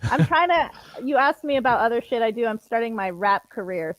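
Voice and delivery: buzzing, robotic mic distortion. Real, not acted. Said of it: "this is actually my robot voice".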